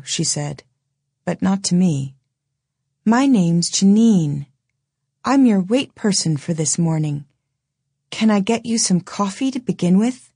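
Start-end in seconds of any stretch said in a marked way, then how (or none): 3.0-10.3 dazed waitress voice. Acted. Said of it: "she was whispering to herself".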